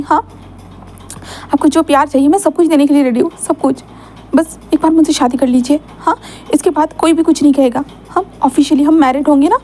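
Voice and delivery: tender Lancer. Acted. Lancer proposes to Wing.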